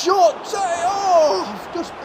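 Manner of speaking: sudden excitement. Real, not acted. Reacting to a blocked shot near half time, high laughing yelp. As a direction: jump up at the shot, then laugh.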